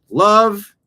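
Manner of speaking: a high, loud, sung-out "Love"; preachy Jesus. Retold or imitated. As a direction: proclaim "Love" like a fervent preacher. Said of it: "Jeff Dye was talking about".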